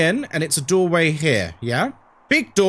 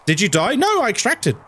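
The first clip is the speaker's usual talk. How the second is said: ordinary delivery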